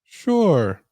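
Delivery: high, bright receptionist voice. Acted. Receptionist wrapping up the call, high and upbeat. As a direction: play the cheerful helpful receptionist. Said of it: "The receptionist".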